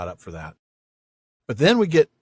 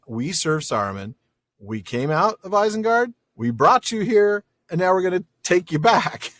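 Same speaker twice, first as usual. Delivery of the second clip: higher, hammed-up boast with a laugh; mock boastful orc; 4 semitones higher, 3 dB louder than usual. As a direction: play the self-important boss. Paraphrasing Ugluk's boast.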